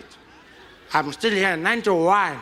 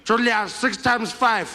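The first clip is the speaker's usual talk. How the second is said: higher, slow, testing; mock quiz question; 6 semitones higher than usual. The speaker quizzing Julius slowly, higher. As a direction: ask it like testing a child. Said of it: "Two seconds".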